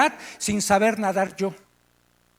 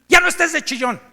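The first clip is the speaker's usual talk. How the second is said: louder, harsh rebuke; group leader scolding a crying newcomer; stern scolding; 4 semitones higher, 4 dB louder than usual. Retold or imitated. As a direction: tell him off, no sympathy. Leader scolds him from tribune.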